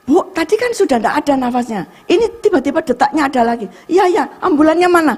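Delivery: high, hurried re-enacted exchange; urgent, flustered. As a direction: act out a startled emergency conversation. Acted urgent exchange at emergency.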